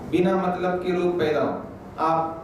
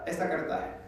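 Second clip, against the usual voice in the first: demonstrating; 3 semitones lower, 9 dB quieter than usual. Shown as a demonstration. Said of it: "एक आदमी कुल्ला करता है".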